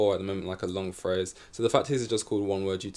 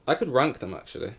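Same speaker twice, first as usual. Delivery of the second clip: casual posh British lilt; 4 semitones higher than usual. Real, not acted. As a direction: say it like a posh aristocrat. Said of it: "I said that in a really posh voice".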